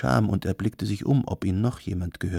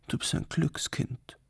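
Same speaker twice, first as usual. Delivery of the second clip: high, soft whisper; 7 semitones higher, 6 dB quieter than usual. A narrator's reading. Girl tells her friend she is lucky, whispering. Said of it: "flüsterte die Schwarze".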